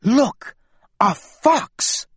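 high, eager cry of discovery; excited. Acted. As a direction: point it out with a thrill. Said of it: "Gentle Mouse whispered excitedly".

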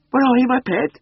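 high, loud coaxing call; carolling call. A narrator's reading. Missus Beck calls for her hidden cat, carolling high. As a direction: carol it sweetly out to a missing pet. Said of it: "caroled Missus Beck".

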